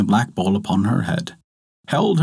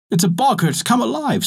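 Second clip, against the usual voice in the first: mocking village woman; 11 semitones higher than usual. A narrator's reading. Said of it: "says one".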